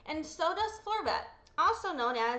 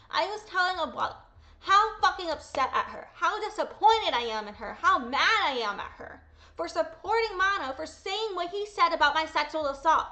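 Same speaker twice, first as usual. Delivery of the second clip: louder, heated re-telling of the fight; angry retelling; 2 semitones higher, 4 dB louder than usual. Retold or imitated. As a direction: relive the anger as you tell it. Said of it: "I was speaking very angrily".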